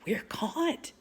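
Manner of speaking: whispered. A narrator's reading. Annie to Jack as they are discovered, whispered. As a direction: drop to a small hushed voice. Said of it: "she whispered".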